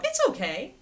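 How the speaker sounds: high fretful "It's okay"; anxious coo. Shown as a demonstration. Trainer contrasting a worried owner's high coo with a calm one. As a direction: coo it in worry. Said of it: "it's all tone of voice".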